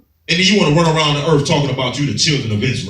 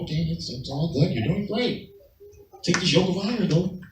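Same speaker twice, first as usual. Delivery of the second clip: mock nice enemy; 5 semitones higher, 7 dB quieter than usual. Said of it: "look at you as nice as possible".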